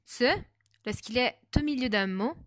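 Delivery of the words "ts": "ts" en une attaque sourde; Z sourd, ts. Shown as a demonstration. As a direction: son isolé "ts", t et s soudés. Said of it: "se prononce". (« ts » sourd, le Z italien)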